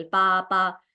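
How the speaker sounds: evenly doubled "पा"; demonstrated babbling. Shown as a demonstration. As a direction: say "पा" twice as separate babbled syllables. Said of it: "babble कर रहा है केवल". (Babbling जैसा दोहराया "पा")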